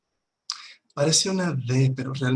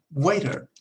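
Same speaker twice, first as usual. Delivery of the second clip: Waiter called with rising tune; calling the waiter; 3 semitones higher than usual. Shown as a demonstration. Teacher demonstrating calling for the waiter. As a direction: call out Waiter to get attention. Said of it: "para llamar su atención".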